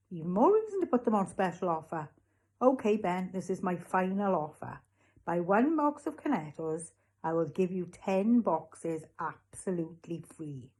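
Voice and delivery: emphatic sales patter, slowing on the deal; persistent shopkeeper. Acted. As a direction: press your final offer on the customer. Raj makes final offer.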